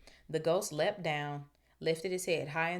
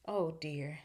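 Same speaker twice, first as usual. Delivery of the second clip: sadly. Acted. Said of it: "said Hermione sadly".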